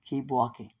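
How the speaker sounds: low, restrained voice of God; God's voice. Retold or imitated. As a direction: lightly voice God giving a calm order. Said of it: "God said".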